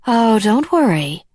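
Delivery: breezy cheer to brush off worry; Alice cheerfully waving off the worry. A narrator's reading. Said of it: "she said cheerfully".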